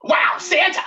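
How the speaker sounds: high, loud gasp of wonder; a child seeing Santa for the first time; awestruck kid. Retold or imitated. Retelling the movie's boy meeting Santa, high and loud. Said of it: "he's like".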